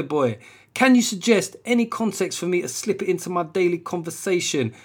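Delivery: put-on high South London urban accent; put-on South London street voice. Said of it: "cool fucking urban accent I was doing".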